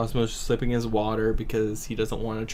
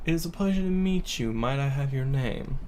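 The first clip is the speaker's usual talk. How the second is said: higher, courtly gentleman's greeting; polite gentleman character; 6 semitones higher than usual. Acted. Reynard greets the dwarf at the bar, higher and courtly.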